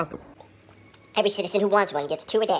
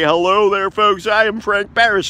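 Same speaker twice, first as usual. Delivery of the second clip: loud mock introduction as a ghostly actor; a touch of Frank Barris, louder; 7 dB louder than usual. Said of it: "able to portray, Frank Barris".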